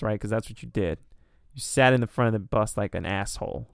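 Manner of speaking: usual speaking voice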